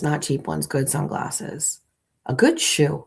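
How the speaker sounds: ordinary talk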